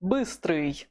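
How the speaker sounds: Быстрый with a clear ы vowel after the B; Russian ы sound. Shown as a demonstration. Teacher models Быстрый for learners, clear ы sound. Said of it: "Note this U sound".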